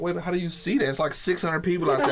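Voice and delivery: high, fast, laughing disbelief; can't believe they noticed; amazed disbelief. Retold or imitated. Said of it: "I'm like".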